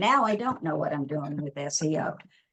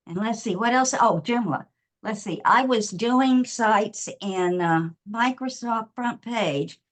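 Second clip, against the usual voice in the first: breathless after running through the house; out of breath. Real, not acted. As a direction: catch your breath between words. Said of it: "Excuse me, I'm out of breath".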